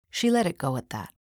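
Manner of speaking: ordinary delivery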